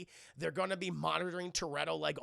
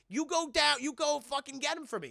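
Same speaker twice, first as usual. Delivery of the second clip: much higher, louder angry order; angry demand; 8 semitones higher, 4 dB louder than usual. Retold or imitated. Johnny Tran pointing at Dom, demanding payback, loud and angry. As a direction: bark it at him pointing.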